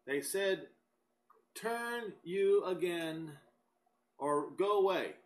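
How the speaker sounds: brisk, emphatic Bible reading aloud; declaimed scripture, pushing through each verse. Acted. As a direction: read the verses out briskly to a congregation.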